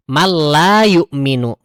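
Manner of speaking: slow, "Mal la" with the n fully merged into l; merged reading. Shown as a demonstration. Teacher demonstrates idgham without nasal hum. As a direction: stretch "Mal la yu'minu" evenly. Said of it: "idgham bila gunah".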